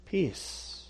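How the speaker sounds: hushed whispered Peace. Acted. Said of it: "repeats word in whisper".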